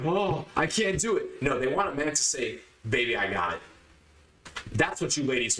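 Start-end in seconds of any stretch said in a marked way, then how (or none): 0.1-1.4 slow, higher-pitched feeble complaint; mock helplessness. Imitating the man women don't want, mock helpless. 2.9-3.6 low, assured reply; man in control. Acted. Man reassuring his woman he can handle it, low and in control.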